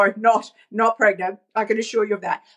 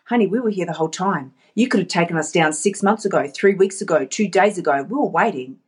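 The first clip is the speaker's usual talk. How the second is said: lower, lightly acted chiding; dreams' gentle reproach; 4 semitones lower than usual. Shelved dreams telling honey they were waiting, mild reproach. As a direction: answer as the dreams, settled and low. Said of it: "what they're gonna say to you".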